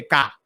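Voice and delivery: "ka" with a hard, unaspirated k; Indian pronunciation. Shown as a demonstration. Host adds a third accent, Indian "ka". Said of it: "in Indian, it, they just say".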